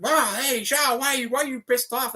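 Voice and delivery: half-playful, pitch it up as if asking Sean; retold surprise. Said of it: "and I was like".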